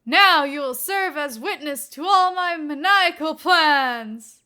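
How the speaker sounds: loud, hammed-up villain laugh and boast; maniacal villain. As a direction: ham it up as a cartoon villain. Villain act continues.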